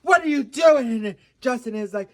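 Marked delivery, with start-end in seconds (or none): 0.0-0.9 high-pitched mock dismay; Hailey Bieber. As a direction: scold him in a raised, louder voice. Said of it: "she said".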